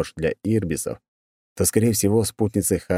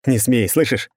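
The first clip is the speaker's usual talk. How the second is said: raised, pleading growl, higher and louder; growling in helpless rage; 5 semitones higher, 3 dB louder than usual. Acted. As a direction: snarl it out in powerless fury. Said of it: "Он рычал в бессильной злобе".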